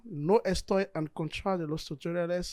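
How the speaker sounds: Spanish read aloud by a French non-speaker; amateur Spanish accent. Shown as a demonstration. Tutorial host trying out Spanish for the viewers, amateur Spanish accent. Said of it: "Notez mon accent, euh, espagnol".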